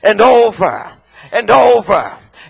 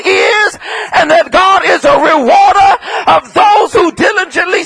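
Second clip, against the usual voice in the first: full-force preaching. Acted. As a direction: build the congregation up line by line.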